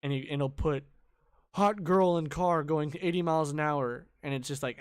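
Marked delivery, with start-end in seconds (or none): 1.5-4.1 hyped, slightly louder video title; mock all-caps headline. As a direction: read it out like clickbait in all caps. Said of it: "all caps, hecka exclamation points".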